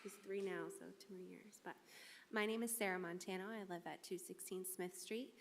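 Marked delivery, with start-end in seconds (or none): 2.3-5.3 speaking off-mic, sound thin and distant; too far from the mic. Real, not acted. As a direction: stand back from the microphone while saying your name. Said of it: "get the microphone closer".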